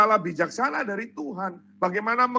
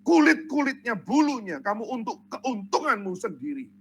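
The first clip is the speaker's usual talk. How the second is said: raised-pitch preacher's reproach; acted divine scolding, mildly forceful; stern rebuke. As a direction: reprove the shepherds as God, firmly. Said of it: "Tuhan menegur".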